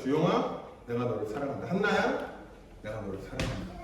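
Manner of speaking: soft, low and fading loving words; tender love. Retold or imitated. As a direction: whisper the love down to almost nothing. Loving parent speaking tenderly.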